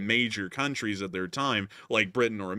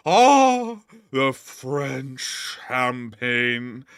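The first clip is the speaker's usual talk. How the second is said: mock French toast; 6 dB louder, much slower than usual.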